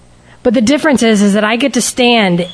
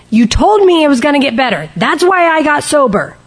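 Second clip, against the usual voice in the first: higher-pitched, aggrieved accusation; acted indignant protest; 6 semitones higher than usual. Speaker replays accusing the people who promised improvement, indignant protest. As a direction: throw the broken promise back at them, mildly heated.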